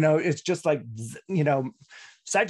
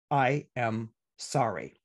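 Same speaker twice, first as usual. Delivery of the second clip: slow, lower, sincere I am sorry; sincere apology; 5 semitones lower, slower than usual. Shown as a demonstration. Astrologer showing listeners a real apology, slow and sincere. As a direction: say it simply and mean it. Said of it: "in those three simple words".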